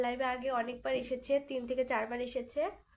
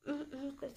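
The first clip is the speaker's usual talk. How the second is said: hoarse hum demo; 9 dB quieter than usual. Shown as a demonstration. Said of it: "খুব বাজে বাজে শব্দ আসছে গলা থেকে".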